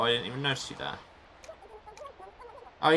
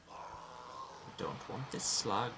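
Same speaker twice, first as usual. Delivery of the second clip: put-on Welsh accent; 8 dB quieter, much slower than usual. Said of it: "I'm definitely going for Welsh".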